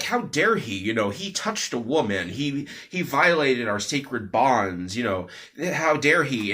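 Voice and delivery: lightly acted indignation, lifting on the outburst; mild fuming. Monk silently seething at his companion, mildly fuming. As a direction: retell a monk's outrage without shouting. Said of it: "is fuming because he's like".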